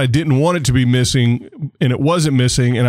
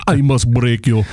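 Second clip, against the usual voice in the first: bad mock Russian accent, Drago style; a lightly done Russian accent; awful Russian accent. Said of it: "I had to do an awful Russian accent".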